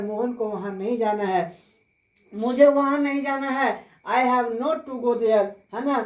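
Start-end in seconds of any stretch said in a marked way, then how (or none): 4.1-5.4 very slow, each word spelled out for students; slow dictation. Shown as a demonstration. Teacher dictating the English answer to students, very slowly. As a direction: say it slowly so students can write. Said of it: "teacher dictates answer".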